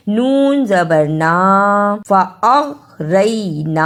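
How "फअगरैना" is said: "फअगरैना" slowly, halting briefly after अग; measured "फअगरैना" with a catch on the ग; stop on ag. Shown as a demonstration. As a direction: hold back after अग in "फअगरैना", then glide through रै. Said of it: "अग कह के रुक जाएं".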